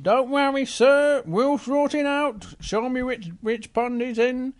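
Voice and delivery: a hint of a calm zookeeper; reassuring keeper. Keeper reassures Big Bear.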